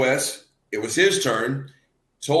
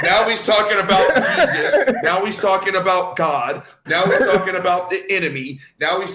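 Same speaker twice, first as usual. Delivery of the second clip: louder, higher, laughing incredulity; mocking disbelief, laughing and louder; laughing exclamation; 4 semitones higher, 4 dB louder than usual. Real, not acted. Mocking a rapper's rant, laughing.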